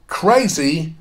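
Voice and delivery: "crazy" drawn out slowly in scare quotes; stressed scare quotes. Retold or imitated. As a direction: put heavy, slow stress on "crazy" as a quoted word. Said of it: "stressed again in, uh, inverted commas".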